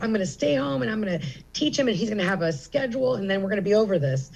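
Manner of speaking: mildly hyped retelling of a resolve; motivated self-quote. Retold or imitated. Mother vowing to stay home and teach him, motivated. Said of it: "I was so motivated".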